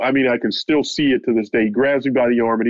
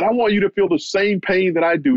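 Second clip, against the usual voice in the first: much higher, heated retold threat; a mock burst of rage, pitched up; rage building; 8 semitones higher than usual. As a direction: imitate a boxer wishing pain on you. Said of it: "lashing out at me".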